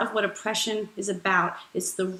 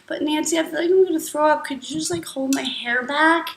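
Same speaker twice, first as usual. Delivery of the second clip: whiny friend; 4 semitones higher, faster than usual. Acted. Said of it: "your friend will say".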